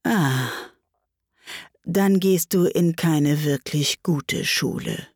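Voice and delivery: slow, relieved realisation; a touch of relief, taking its time; mildly soothed, unhurried; very reassured. Acted. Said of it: "sehr beruhigt".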